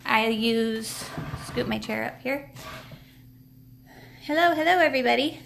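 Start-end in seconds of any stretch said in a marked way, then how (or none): 4.2-5.4 cheerful greeting. Real, not acted. Greeting after camera flip.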